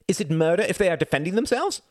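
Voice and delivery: high, loud indignant question; cried out. A narrator's reading. Reginald defending the revolution, crying out. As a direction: cry it out in protest, pitched high. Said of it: "cried Reginald".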